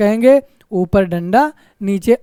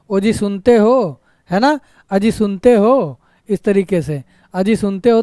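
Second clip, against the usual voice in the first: calling out; slower than usual. Shown as a demonstration. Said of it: "संबोधन में".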